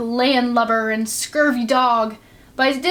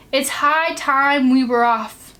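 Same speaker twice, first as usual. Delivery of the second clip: pirate announcing; slower than usual. Acted. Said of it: "he announced".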